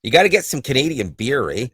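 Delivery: put-on light Canadian accent ending on a rising "eh"; playful Canadian beer pitch; mock Canadian accent. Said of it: "I don't even do a Canadian accent".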